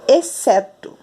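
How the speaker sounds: "exceto" as eh-SEH-tu, one s sound; silent X. Shown as a demonstration. Teacher shows how we say it, silent X. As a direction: say "exceto" clearly with the x unheard. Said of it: "Aqui nós falamos".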